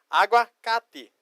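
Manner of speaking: "Aguacate" slowly broken into "agua" and "cate"; slow demonstration. Shown as a demonstration. Teacher shows students the Spanish word, slow and split. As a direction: say "Aguacate" in two slow, separate parts. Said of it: "Então, é aguacate".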